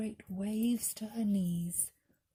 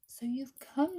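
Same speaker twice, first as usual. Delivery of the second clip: a louder, higher joyful greeting; joyful cry; 5 semitones higher, 4 dB louder than usual. Acted. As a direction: welcome her with bright delight.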